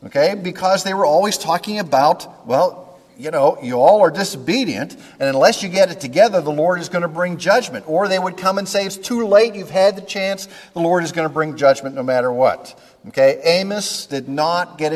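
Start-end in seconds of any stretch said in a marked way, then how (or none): 2.5-7.8 lightly voiced prophet's warning, a bit higher; scolding prophet. Voices Old Testament prophets warning people. 8.9-12.7 lightly acted warning, starting high and coming down; prophet pronouncing doom. Voices prophet announcing judgment.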